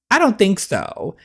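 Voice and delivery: firm denial. Real, not acted. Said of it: "is he telling me".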